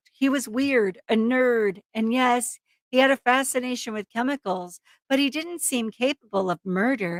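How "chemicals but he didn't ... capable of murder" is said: ordinary talk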